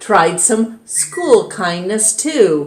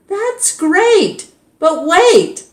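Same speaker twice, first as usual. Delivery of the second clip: excited teacher; 12 semitones higher, slower than usual. A narrator's reading. Teacher excited, more coming.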